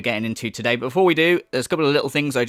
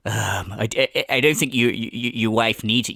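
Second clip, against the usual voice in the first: mocking imitation; 6 semitones lower than usual. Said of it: "to quote you".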